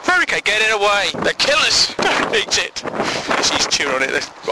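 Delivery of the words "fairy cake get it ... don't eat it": put-on high, alarmed old lady. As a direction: warn him off like a frantic widow. Widow warning, high.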